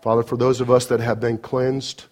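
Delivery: earnest, steady pastoral prayer; closing prayer. Acted. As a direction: pray it sincerely over the congregation.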